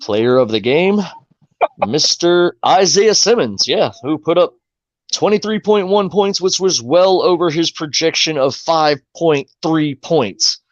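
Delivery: slow, measured announcer read; recap read. Acted. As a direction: read the stats like a sportscaster. Reads the fantasy recap aloud.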